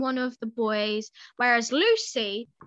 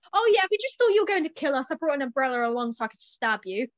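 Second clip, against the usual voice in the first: mocking re-enactment; faster than usual. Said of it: "What a great way to".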